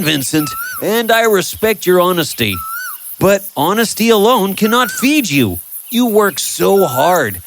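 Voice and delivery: Tom urging. Acted. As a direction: lean in and urge him kindly. Tom urges Vincent.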